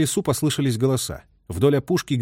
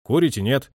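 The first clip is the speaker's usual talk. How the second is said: calm. A narrator's reading. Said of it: "спросил спокойно".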